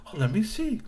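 high, eager robot voice; helpful hotel bot. Acted. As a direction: chirp it like a keen helper bot.

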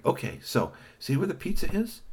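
lightly voiced sly Kashi. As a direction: play the sly pizza thief.

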